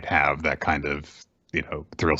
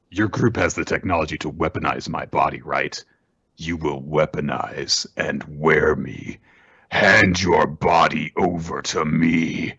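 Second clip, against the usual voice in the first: kaiju voice; 3 semitones lower than usual. Retold or imitated. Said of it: "And number ten's like".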